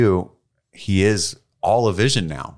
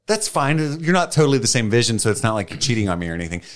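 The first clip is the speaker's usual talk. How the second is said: Wanda voice; 5 semitones higher, faster than usual. Retold or imitated. Acting Wanda's reply in the scene.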